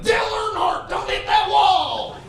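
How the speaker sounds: dad yelling. Retold or imitated. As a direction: yell at the race on TV. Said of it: "I'm always like".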